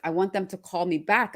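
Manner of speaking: ordinary talk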